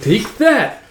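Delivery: put-on high kid's attack yell; play-fight shout. Child striking in pretend battle, play-fight shout. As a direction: shout it like a child landing a blow. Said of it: "are all playing pretend".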